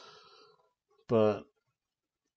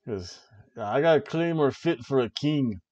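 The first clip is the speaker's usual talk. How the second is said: put-on amateur Scottish accent; half-successful Scottish wrestler impression; Drew McIntyre, attempted Scottish accent. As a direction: have a rough go at sounding Scottish. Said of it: "do a Scottish accent like this".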